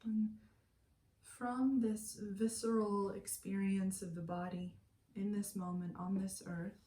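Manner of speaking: calm, unhurried meditation guide with long pauses; guided meditation. Acted. Meditation teacher settling listeners lying down for yoga nidra, calm guided meditation. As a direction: ease them into stillness, pausing between phrases.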